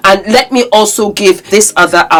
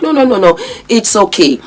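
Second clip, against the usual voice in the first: mock a patronizing reassurance; condescending quote; 2 semitones higher, faster than usual. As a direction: brush it off condescendingly, imitating him. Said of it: "In that kind of condescending fashion".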